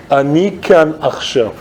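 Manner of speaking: flat, curt "Ani kan achshav"; curt Israeli. Retold or imitated. Scooter rider dismisses the wife curtly, blunt and flat. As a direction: brush her off bluntly. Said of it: "he said to her".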